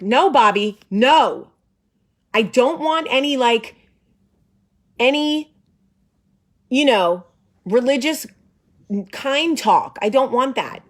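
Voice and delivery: mock exasperated protest, pitched high; retold yelling. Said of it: "me yelling at Bobby".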